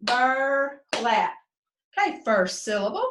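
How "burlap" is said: "Burlap" as two spaced beats; "Burlap" with a clear break after bur; split into syllables. Shown as a demonstration. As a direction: clap out "Burlap", bur then lap. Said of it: "Let's clap it again".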